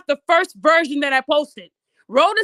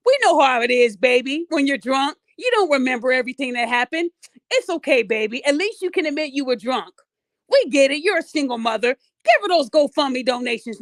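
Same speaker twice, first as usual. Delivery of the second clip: mock pity; 5 semitones lower than usual. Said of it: "you guys are gonna say".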